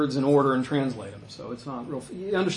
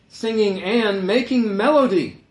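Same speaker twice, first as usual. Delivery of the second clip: "and" stretched and punched, louder; stress on "and"; 5 semitones higher, 5 dB louder than usual. Shown as a demonstration. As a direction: read slowly and loudly, leaning hard on "and". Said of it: "I'm emphasizing the word".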